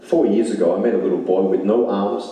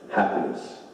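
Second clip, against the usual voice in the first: whispered answer; 3 semitones lower, 7 dB quieter than usual. Real, not acted. Answer to own question.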